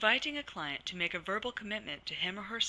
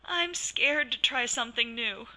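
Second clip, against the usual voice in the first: scared and worried; 6 semitones higher, 8 dB louder than usual. Shown as a demonstration. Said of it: "if I sounded scared and worried".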